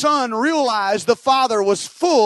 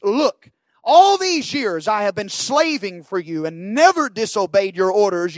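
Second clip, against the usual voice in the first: mild mock anger. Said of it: "you can hear the anger in his voice".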